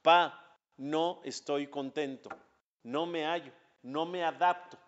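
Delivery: lightly acted discontent, word by word; mild complaint. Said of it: "Le dice a Hashem, a su papá".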